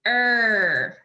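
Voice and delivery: "Er" held long on its own; isolated sound. Shown as a demonstration. Teacher giving an ending to add, "Er" drawn out. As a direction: draw out "Er" as one sustained sound. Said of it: "I wanna add er".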